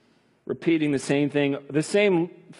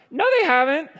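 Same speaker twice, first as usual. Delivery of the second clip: high, loud contradiction; high emphatic no; emphatic denial; 12 semitones higher, 4 dB louder than usual. Acted. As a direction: snap the correction back at him. Arguing back as God.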